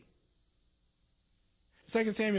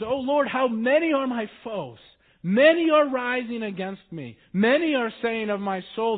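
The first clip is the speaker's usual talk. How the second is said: a touch of pleading, louder and higher; anguished plea; 5 semitones higher, 6 dB louder than usual. Acted. Preacher voicing David's psalm as a lightly anguished plea. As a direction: cry out to God from distress.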